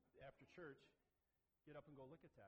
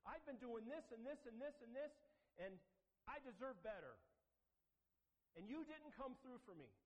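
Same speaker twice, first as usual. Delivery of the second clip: entitled complaint; 7 semitones higher, 3 dB louder than usual. Retold or imitated. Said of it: "Isn't that what we do?".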